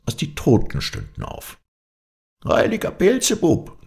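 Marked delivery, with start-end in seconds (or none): 2.4-3.8 very high crone exclamation; old witch's cry. A narrator's reading. Witch calls on her saint at seeing the dead, high cry. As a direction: cry out as a frightened old hag. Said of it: "rief sie".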